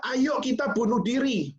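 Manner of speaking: high-pitched mock rallying call; imitating blogger's invitation. Preacher mimics a blogger urging readers, mock invitation. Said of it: "tulisannya mengajak".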